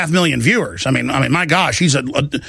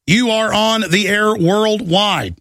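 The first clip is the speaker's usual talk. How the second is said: slow announcement; slower than usual. Real, not acted. Putting a caller on air.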